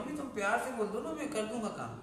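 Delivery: lightly voiced kid begging mom to ask sweetly; pleading child. Child coaxing his mother to speak kindly, quick and pleading. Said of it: "कई बार बच्चा भी कहता".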